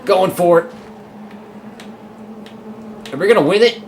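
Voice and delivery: very high, loud yelling of joy; ecstatic shouting. Real, not acted. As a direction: scream the win at the line. Winning race at line.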